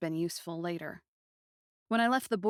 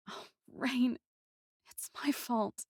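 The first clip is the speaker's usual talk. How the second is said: guilty sorrow; 5 semitones higher than usual. Acted. Narrator guilty.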